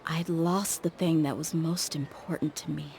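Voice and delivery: breathy near-whisper, voice dropping away; hushed confession. Acted. Mercenary confessing his loss to friends, in a whisper. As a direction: let the words fall to a whisper.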